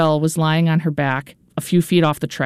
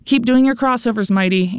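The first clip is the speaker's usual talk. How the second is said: coach shouting; 7 semitones higher than usual. A narrator's reading. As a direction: yell it across the track to push her. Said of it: "Anne shouted".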